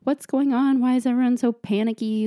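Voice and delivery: lightly voiced anxious pup; panicky dog voice. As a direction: voice the puppy's mild panic. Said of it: "she's like, shaking, hyperventilating".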